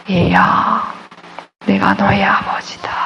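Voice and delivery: hushed, breathless divine whisper; soft unvoiced whisper of God. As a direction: whisper it like God speaking inside. God's voice whispered again.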